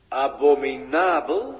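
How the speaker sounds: astonished repeat; surprised echo. Acted. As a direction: throw the word back as a question. Echoing the word in disbelief.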